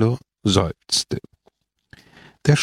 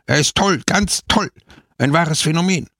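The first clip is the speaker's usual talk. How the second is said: exasperated praise; 7 semitones higher than usual. A narrator's reading. Pepone's exasperated mock praise.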